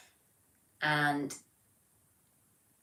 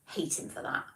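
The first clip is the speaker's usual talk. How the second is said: mock grumble; 4 dB quieter than usual. Jokes about brother's accent skill.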